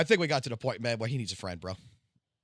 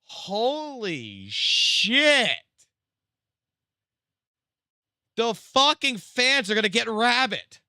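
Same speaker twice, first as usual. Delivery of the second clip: stunned disbelief; 11 semitones higher, 7 dB louder, slower than usual. Real, not acted. Shocked by threat message.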